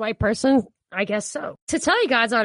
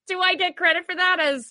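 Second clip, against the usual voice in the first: amused; 9 semitones higher than usual. Real, not acted. Repeats own joke question after laughing.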